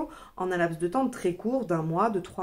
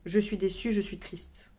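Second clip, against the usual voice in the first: whispering. Shown as a demonstration. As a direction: breathe it out in a whisper. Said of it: "vous ne faites pas ça".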